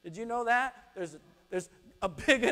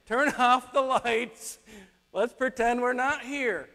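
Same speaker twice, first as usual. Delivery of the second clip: hiding homeowner; 4 semitones higher, 5 dB louder than usual. Pretend. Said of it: "Have you ever done that kind of thing".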